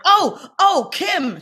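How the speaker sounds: squeaky high oh, oh, Kim; a startled high yelp of realization; sudden high realization. Retold or imitated. To Rosario, realizing the role, high startled cry. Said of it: "And I was like".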